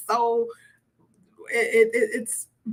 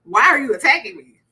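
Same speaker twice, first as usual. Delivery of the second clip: defensive husband; 6 dB louder than usual. Acted. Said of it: "Like, "Okay, you're attacking me".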